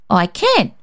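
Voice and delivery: put-on a boy's short, firm insistence. A narrator's reading. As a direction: stand your ground, calmly. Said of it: "David said firmly".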